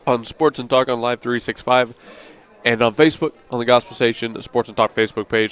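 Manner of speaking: breathless from gulping water; catching breath between phrases. Real, not acted. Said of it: "Sorry, I'm out of breath".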